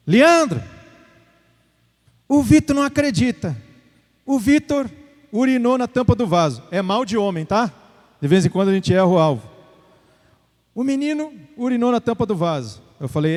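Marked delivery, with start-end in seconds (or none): 0.1-6.6 higher-pitched imitation of a complaining mother; lightly mock a mother's complaint; mãe reclamando. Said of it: "a mãe dele reclamando". 10.7-12.8 soft imitation of a complaining mother; mãe reclamando. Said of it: "a mãe dele reclamando".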